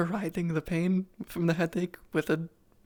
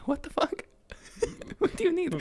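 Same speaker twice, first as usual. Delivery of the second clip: laughing; 4 dB louder than usual. Real, not acted. Laughing through a question.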